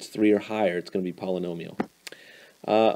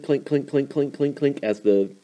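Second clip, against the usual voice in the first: clinking coaster chain; 5 semitones higher than usual. Shown as a demonstration. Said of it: "you usually hear clink".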